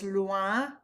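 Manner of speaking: slow "loin" with oi said wa; teacher modelling the wa in "loin". Shown as a demonstration. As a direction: say "loin" as lwa. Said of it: "the O I says wa".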